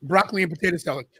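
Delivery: talking through a mouthful; chewing between words; wolfing down food. Real, not acted. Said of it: "so I gotta eat".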